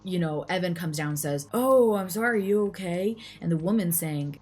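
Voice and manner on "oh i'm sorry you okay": high, loud gushing apology; feigned concern. Retold or imitated. Boyfriend to the girlfriend he shoved, falsely concerned. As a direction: put on exaggerated innocent concern.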